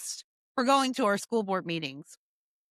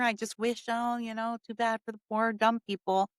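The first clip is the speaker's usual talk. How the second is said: mock condescending pity. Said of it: "You think what you said was just sort of".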